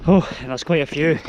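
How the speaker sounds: panting between phrases; breathless from climbing stairs; slightly out of breath. Real, not acted. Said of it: "starting to lose my breath".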